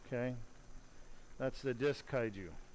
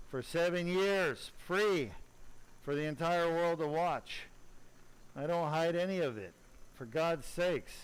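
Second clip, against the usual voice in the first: exasperated, raised voice, higher at first; angry; 3 semitones higher than usual. Real, not acted. Surgeon venting that colleagues ignore his free broadcasts, angry. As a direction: vent real frustration, pushing the key words. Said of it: "I am angry".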